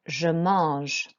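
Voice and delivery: careful French model for pupils; model French pronunciation. Shown as a demonstration. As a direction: repeat "mange" clearly with a nasal vowel. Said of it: "And again".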